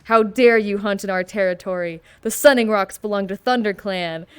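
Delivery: lightly voiced angry tabby cat; Warrior Cats read-along tone. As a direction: hit the words like a dramatic audiobook. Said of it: "in the exact tone of S S's Warrior Cats".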